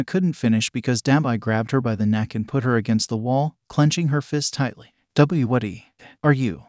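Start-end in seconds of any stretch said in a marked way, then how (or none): 5.1-6.6 strangled, barely any air; choked gasping voice. Acted. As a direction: squeeze the words out while being choked. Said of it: "could barely say with what little air she had left".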